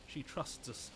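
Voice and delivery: whisper. Acted. Voice contrast with next take.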